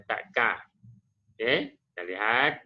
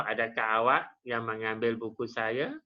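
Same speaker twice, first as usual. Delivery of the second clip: rising question tune on "saya", voice lifting at the end; question intonation. Shown as a demonstration. Teacher demonstrates question intonation to pupils, rising at the end. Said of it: "Ha, intonasi bertanya".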